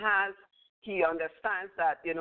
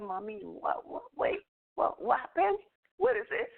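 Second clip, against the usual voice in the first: imitating a little child, higher and pleading; curious child; 4 semitones higher than usual. As a child pulling at mom, curious high voice. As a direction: tug at mum's sleeve, rising into a high child's plea. Child tugging mother, asking.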